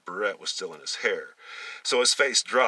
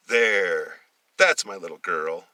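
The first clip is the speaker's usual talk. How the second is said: lightly voiced mother, somewhat louder; a hint of a doting mother; 7 dB louder, slower than usual. Mother admiring her son in a pink dress, mildly louder. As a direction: show off the dressed-up boy proudly.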